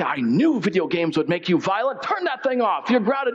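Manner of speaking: mock maternal scolding; scolding mother. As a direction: play a shocked mother laying down the law. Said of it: "my mother would walk into the room and gasp and say".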